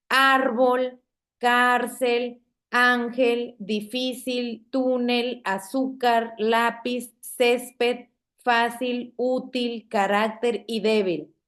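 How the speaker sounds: slow word list, stress on ÁR in árbol, CÁR in cárcel; measured examples, leaning on the next-to-last syllable as in "túnel"; penultimate stress. Shown as a demonstration. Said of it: "Vean la ubicación de la sílaba tónica".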